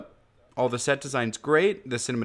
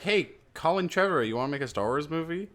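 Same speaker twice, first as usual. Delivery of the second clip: higher, eager offer; cheery studio invite; 5 semitones higher, faster than usual. Retold or imitated. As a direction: sell it like a friendly pitch. Studio offer, then refusal.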